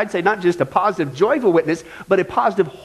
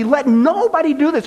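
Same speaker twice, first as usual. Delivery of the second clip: higher-pitched, emphatic command; 5 semitones higher than usual. Retold or imitated. Preacher quoting James to the congregation, emphatic. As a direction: lay down a firm prohibition. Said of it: "James says emphatically".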